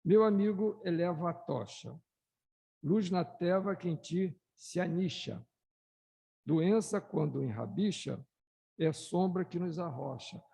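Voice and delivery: plainer second reading of the verses; calmer poem reread. Shown as a demonstration. Speaker rereads the poem for the audience, calmer and plainer. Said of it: "Vou, vou reler".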